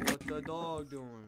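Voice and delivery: drawn-out silly catchphrase; slow meme voice. Pretend. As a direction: stretch each word like a meme. Meme quote slower.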